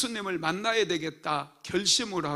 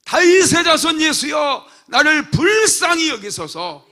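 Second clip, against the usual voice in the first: desperate full shout, much higher and louder; louder desperate cry for mercy; 8 semitones higher, 12 dB louder than usual. Acted. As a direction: scream it over the crowd, slow on 불쌍히. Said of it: "소리를 질러대는 거야".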